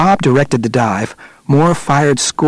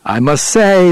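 raised, lightly amused voice; 6 semitones higher, slower than usual. A narrator's reading. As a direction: say it with a touch of mirth, higher pitched. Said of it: "laughed Moore".

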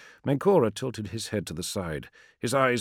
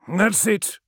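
higher, louder scornful spit; spitting; 13 semitones higher, 6 dB louder than usual. Acted. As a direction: spit the words with contempt. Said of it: "spat Menkora".

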